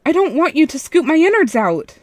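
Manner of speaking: terrified night guard shouting; frightened shout. A narrator's reading. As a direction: scream it through the door in terror. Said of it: "she shouted".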